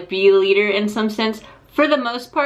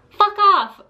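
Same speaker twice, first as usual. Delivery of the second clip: mock snapping girl; 10 semitones higher, 4 dB louder than usual. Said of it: "then it's just like".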